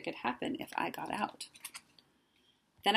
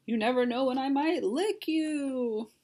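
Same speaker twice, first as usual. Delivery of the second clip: slow, higher, mock-scary monster threat; trying to sound terrifying; 7 semitones higher, 4 dB louder than usual. A narrator's reading. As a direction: draw it out high and spooky, hammed-up. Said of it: "trying to sound terrifying".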